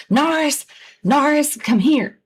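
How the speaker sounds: retold holler. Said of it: "screaming and hollering".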